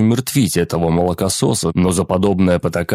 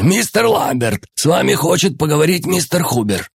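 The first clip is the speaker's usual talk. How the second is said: calling louder; 10 semitones higher than usual. Acted. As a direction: shout it down the corridor. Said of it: "а затем уже громче".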